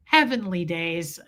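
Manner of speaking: low, slow imitation; imitated slow reaction to surprising news; Fred's catchphrase. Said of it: "He would say".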